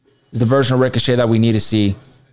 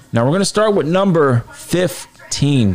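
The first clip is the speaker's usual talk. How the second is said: announcing the next entry; raised countdown host voice; top ten countdown; 5 semitones higher than usual. Acted.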